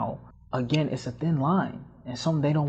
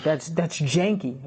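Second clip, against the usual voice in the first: slow, higher-pitched complaint; drawn-out mock disapproval; imitated friend's talk; 4 semitones higher, slower than usual. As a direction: lightly mimic a let-down friend. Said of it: "That's how she talks".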